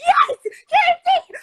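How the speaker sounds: slow, high, loud hyped shout. Real, not acted. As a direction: yell it out, too excited to hold back. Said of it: "I get hype".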